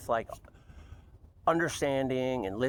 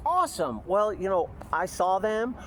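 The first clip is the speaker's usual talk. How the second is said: mock sweet; 4 semitones higher, slower than usual. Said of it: "I was like".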